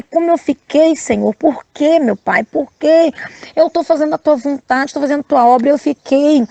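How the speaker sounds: high, anguished cry to God; desperate crying plea. Retold or imitated. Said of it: "eu chorava, eu gritava e eu falava".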